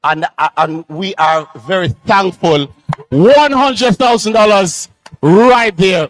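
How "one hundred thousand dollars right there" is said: excited announcement. Real, not acted. Announcing a big donation live.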